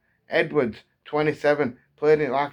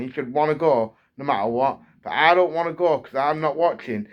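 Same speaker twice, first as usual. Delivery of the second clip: heated rant, louder and higher; getting angry; 4 semitones higher, 4 dB louder than usual. Real, not acted. Fan ranting about wasting money on his club, heated and raised. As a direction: let the frustration boil over. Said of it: "getting angry now even thinking about it".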